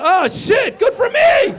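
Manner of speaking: very high, loud squeal; excited realization. Acted. Comic realizing he qualifies too, excited high shriek. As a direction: shriek it as it dawns on you. Realizes the news includes him.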